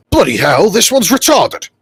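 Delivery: high, loud exasperated outburst; exasperated exclamation. Acted. Officer turning to his underling, exasperated and high. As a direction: exclaim in disbelief to a subordinate.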